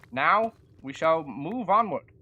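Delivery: lightly voiced old-timey gentleman, slow; a hint of a grand Victorian proclamation; 1800s inventor voice. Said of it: "I'm stuck in the accent".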